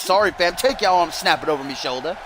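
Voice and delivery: lightly put-on English accent. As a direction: quote the wrestler with a hint of an English accent. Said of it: "why I gave him that accent".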